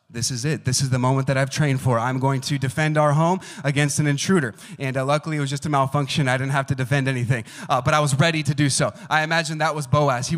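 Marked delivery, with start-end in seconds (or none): 0.1-4.5 mock heroic resolve. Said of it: "I thought".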